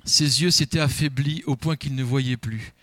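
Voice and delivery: measured Bible reading to the congregation; a preacher reads Isaac's blessing to the church, solemn and measured; scripture reading. Acted. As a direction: read the passage with solemn weight. Reads Genesis aloud in church.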